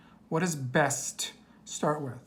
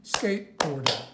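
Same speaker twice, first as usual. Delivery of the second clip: "Skateboarder" broken into skate, board, er; syllable by syllable. Shown as a demonstration. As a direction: say "Skateboarder" in separate beats for counting. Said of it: "Let's try it again".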